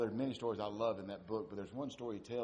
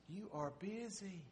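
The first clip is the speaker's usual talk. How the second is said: mock praise; 10 semitones higher, 7 dB quieter than usual. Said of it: "folks saying".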